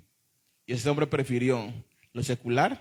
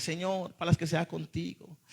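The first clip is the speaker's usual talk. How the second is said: imitating tearful pleading; 3 semitones higher, 5 dB quieter than usual. Preacher mimicking young people vowing to follow God, tearful pleading. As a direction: act out an emotional young convert pleading. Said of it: "Con lágrimas".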